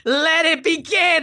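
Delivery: high, slow announcer boom; dramatic announcer. Acted. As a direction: open the show like a grand host. Dramatic game-show opening cry.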